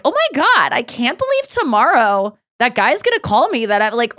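comical disbelief. Shown as a demonstration. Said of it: "a comical way of".

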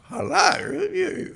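very high, loud mock greeting; Francis Bacon. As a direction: imitate an effusive greeting in a high voice. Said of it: "he'd come up and he'd say".

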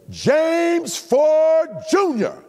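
high, drawn-out full-name summons; mad mother calling. Acted. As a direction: imitate an angry mother stretching out each name. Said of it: "is when she is mad".

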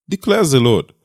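ordinary delivery

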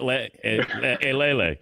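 choppy vowel-by-vowel sounding out; staccato. Retold or imitated. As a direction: sound out each vowel in broken bits. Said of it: "sound out the vowels".

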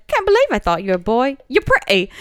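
put-on quoted TV line in British accent. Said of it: "favorite British phrase".

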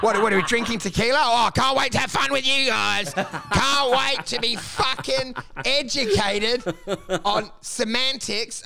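hammed-up party excitement, rushed then slowing; sarcastic enthusiasm. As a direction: gush with fake glee, then stretch it out. Mock enthusiasm after being called out.

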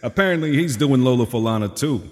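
lightly voiced swaggering crooner; a hint of a classic crooner ribbing a friend; mild Rat Pack swagger; impression of a famous crooner. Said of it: "You apparently do a good" impression of a famous crooner.

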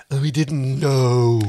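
slow scornful whisper. Acted. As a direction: hiss it with contempt. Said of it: "Erin's voice was scornful".

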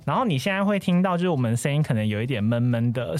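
muffled behind a mask; through a face mask. Real, not acted. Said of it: "我现在是戴着口罩录音啦".

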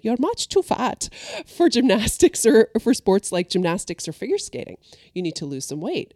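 imitated Russian accent, easing off toward the end. Gym owner telling a child she can't compete, in a Russian accent. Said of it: "said to me in her Russian accent".

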